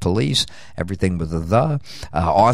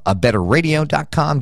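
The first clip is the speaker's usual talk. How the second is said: higher announcer read of "A better radio dot com"; ad read punch; 5 semitones higher than usual. Acted.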